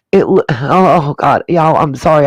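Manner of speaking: breathless, gasping between words; struggling to catch breath. Real, not acted. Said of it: "I just kinda lost my breath".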